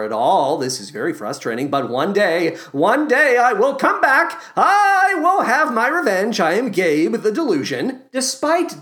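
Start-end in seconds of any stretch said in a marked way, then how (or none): 2.7-6.4 louder, higher villain vow; vengeful vow. Acted. Delusion promises revenge, louder hammed-up vow.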